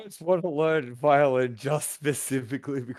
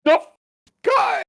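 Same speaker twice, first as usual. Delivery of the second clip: shouted greeting; 9 dB louder than usual. Acted. Calling out a greeting.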